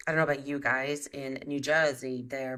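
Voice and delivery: put-on a lightly done New Jersey accent with stretched vowels; a playful, not very good New Jersey impression; mock Jersey accent. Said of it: "that was my Jersey interpretation".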